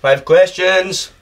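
slow, drawn-out echo; echoing announcer. Acted. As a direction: repeat it like a quiz host. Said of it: "Quick fire round".

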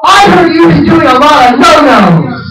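slow, mock-menacing accusation; drawn-out hostile charge; angry accusation. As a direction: scold them slowly like a wronged superhero. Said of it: "she got this angry look".

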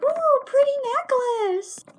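high, loud mock coo; joking teacher. Teacher wrapping slime round a girl's neck as a joke, high playful coo. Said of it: "just as a little joke".

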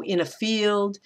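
FIELD stressed after light "in a"; anapest. Shown as a demonstration. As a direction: lean on "field". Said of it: "are stressed just the same".

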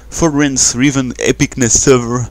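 English name in a slow French accent; real French-accented English; thick French accent. Real, not acted. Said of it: "Désolé pour mon accent qui pue la merde".

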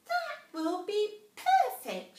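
high, slow squeaky mouse; a tiny mouse gasping in wonder; little mouse voice. A narrator's reading.

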